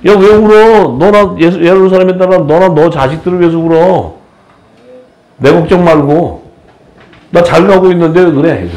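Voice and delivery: high, breezy, lightly amused Jesus; Jesus, brushing off tears. Retold or imitated. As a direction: wave off the weeping like it's nothing. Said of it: "성경에 그렇게 써 있어".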